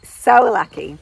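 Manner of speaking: loud, gushing American caricature; big, overblown American accent; Francine's terrible American accent. Acted. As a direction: put on a brash American accent, drawn out. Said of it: "terrible accent of Francine".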